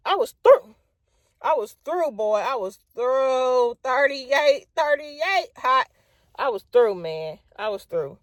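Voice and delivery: high, exasperated repeating; I was through, drawn out; fed up. Real, not acted. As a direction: done with it all. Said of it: "naming her own exasperation".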